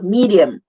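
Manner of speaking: "medium" as mee-dee-um with an uh at the end; three-syllable "medium"; schwa ending. Shown as a demonstration. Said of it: "A schwa is an uh".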